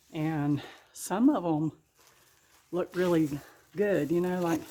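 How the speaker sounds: winded, breathing hard between words. Real, not acted. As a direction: talk while catching your breath. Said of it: "I'm out of breath".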